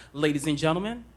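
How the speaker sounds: lightly voiced circus ringmaster; a hint of a circus ringmaster welcoming the crowd; circus announcer. Shown as a demonstration. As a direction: announce it like a big-top emcee. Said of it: "announcer voices, like the ones at the circus".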